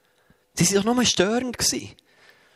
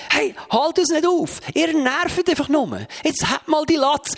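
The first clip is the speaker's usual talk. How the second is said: higher, slow, irritated brush-off; annoyed rebuke; 8 semitones higher, slower than usual. Acted. Disciples snap at the blind beggar, mild annoyed rebuke. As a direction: tell the beggar off, mildly acted.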